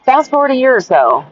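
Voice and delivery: loud slip at the start of a new chapter; too loud. Real, not acted. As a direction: start the sentence a bit too loud for the mic. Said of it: "Oh, sorry, that was probably really loud".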